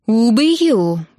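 drawn-out furious threat; grating, unnatural voice. A narrator's reading. Enraged bride threatening the lads, grinding and strange-voiced. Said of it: "проскрежетала она не своим голосом".

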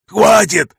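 high shrieking plea to stop; panicked wail. Acted. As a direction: scream it in panic. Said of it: "завопил он".

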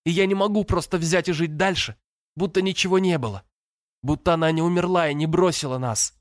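высокий, надломленный голос сквозь рыдания; выплачи каждое слово; рыдающий подросток. A narrator's reading. Брат рыдает в душе. (брат в отчаянии рыдает, срываясь)

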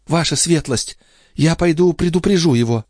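put-on high young maid's voice; Nicole voice. Maid pleading with the old duke, high girlish voice. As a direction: play the pert young maid.

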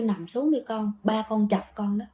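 retold mother's hushed reassurance; hushed warning. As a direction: quietly hold the daughter back. Mother hushing daughter at night.

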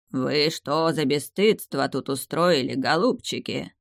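put-on slow, rasping old tree scolding; lightly voiced grumpy living tree; hoarse tree voice. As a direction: croak it out like an ancient tree. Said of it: "прохрипело оно".

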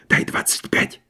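breathless whispered aside. A narrator's reading. Myshlaevsky to Karas by the door, whispering. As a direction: whisper it so the door can't hear. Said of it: "шепнул Карасю".

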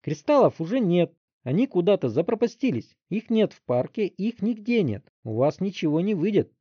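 put-on high, loud frightened boy's cry; panicked shout. A narrator's reading. Teen panicking when told he'll lose power. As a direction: scream as if a knife is at his throat. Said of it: "закричал Вилли".

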